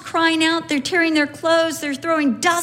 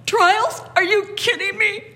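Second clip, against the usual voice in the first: mock disbelief; 6 semitones higher than usual. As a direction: play it incredulous, pitch jumping up. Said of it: "He's not upset at the prophecies like".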